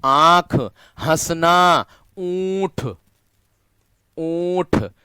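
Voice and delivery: आंख हंसना ऊंट said high and nasal; teacher modelling nasal words; nasal example words. Shown as a demonstration. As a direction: show off the nasal vowels in each word. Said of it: "उच्चारण करके देख लेना".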